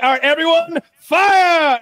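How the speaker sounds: high, loud order to fire; shouted command. Retold or imitated. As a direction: bark the launch order across the deck.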